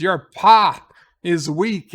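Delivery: slow, loud Klingon-style berating; yelling. Retold or imitated. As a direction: chew him out slowly and loudly. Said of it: "You gotta yell at them".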